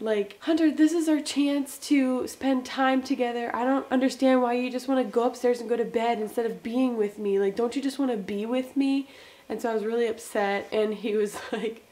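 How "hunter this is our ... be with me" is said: mildly exasperated complaint; retold annoyance. Wife to husband heading to bed, mildly mad retold complaint. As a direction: retell a hurt, mildly mad plea. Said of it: "I got so mad".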